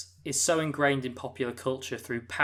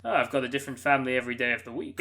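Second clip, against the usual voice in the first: quick, lightly put-on quote voice; put-on character voice; much faster than usual. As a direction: rattle it off as a mock character. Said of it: "I don't know why I did that voice".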